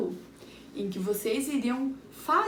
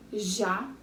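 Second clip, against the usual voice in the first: "Jacaré" split as Ja, ca, ré with long gaps; teacher breaking "Jacaré" into three syllables; 2 semitones lower than usual. Shown as a demonstration. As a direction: count out each beat of "Jacaré" separately. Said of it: "Vamos ver quantas sílabas tinha".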